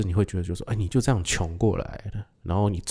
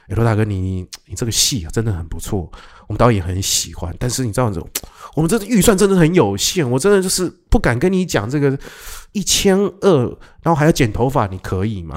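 imitating a pleading producer, rising higher and louder; apologetic casting call; 4 semitones higher, 4 dB louder than usual. Casting assistant on the phone pleading over the tiny budget, higher and louder. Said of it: "打电话过来".

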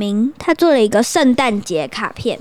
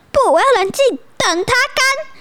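high, mock-serious self-talk; forced calm; 12 semitones higher than usual. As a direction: tell yourself to stay calm. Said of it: "他就说". (流口水的孩子对自己说，假装冷静)

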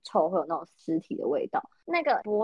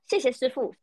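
mildly raised, imitating a loud cheerful thanks; a light mock of thanking the driver out loud; 5 semitones higher than usual. Roommate thanking the driver as she gets out, mild mock loud thanks. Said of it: "我室友还会超大声说".

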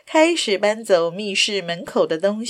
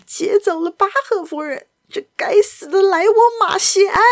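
loud, higher furious curse; angry outburst; 11 semitones higher, 4 dB louder than usual. Acted. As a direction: spit out the name in rage. Lupin cursing the escaped villain.

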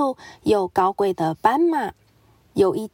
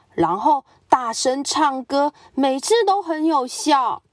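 higher, confident helpful advice; eager tiger; 3 semitones higher than usual. Acted. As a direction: sell the silly cure brightly. Crocodile gives advice.

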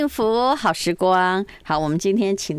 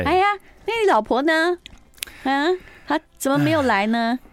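playful disappointment; 8 semitones higher than usual. Acted. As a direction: ask like you've been let down, teasingly. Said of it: "我今天有一点失望".

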